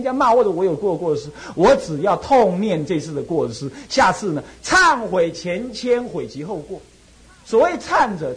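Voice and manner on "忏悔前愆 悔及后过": slow, measured scripture recital; solemn slow quoting of scripture; slow recitation. Shown as a demonstration. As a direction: intone the classical phrase slowly. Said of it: "recites scripture phrase".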